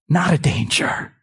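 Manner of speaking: whispered reassurance to believers. Real, not acted. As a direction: hush it like a secret. Whispered aside.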